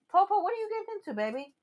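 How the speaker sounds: high, fast voice for the dog; pet talk. Real, not acted. To her pet Popo chewing plastic, a high, quick pet-talk voice. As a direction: coo at the pet to stop it.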